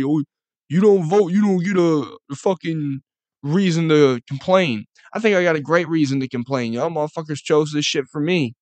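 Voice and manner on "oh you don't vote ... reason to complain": mocking critics. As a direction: parrot the know-it-all voters. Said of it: "people wanna say".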